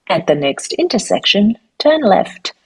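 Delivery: crisp navigation prompt, read evenly; GPS voice demo. Shown as a demonstration. Voice artist demoing her audition lines. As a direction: say it like a sat-nav giving directions. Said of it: "they had me say some things like".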